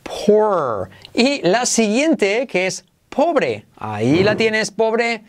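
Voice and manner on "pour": unvoiced whisper of "Pour."; "Pour." whispered, falling; whispered demo. Shown as a demonstration. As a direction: breathe "Pour." without voice. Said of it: "O más R genérica".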